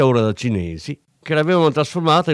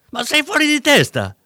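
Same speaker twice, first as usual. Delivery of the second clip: high, loud outburst of disbelief; shocked exclamation; 4 dB louder than usual. A narrator's reading. Dealer cries out at the cop after the elbow, shocked. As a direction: blurt it out in shock, voice jumping up. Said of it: "esclamò Roby".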